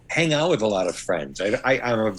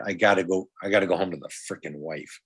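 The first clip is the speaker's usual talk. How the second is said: lower, subdued grumble; mock grumbling husband; 4 semitones lower than usual. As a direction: imitate a husband dreading going home. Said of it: "I never have said".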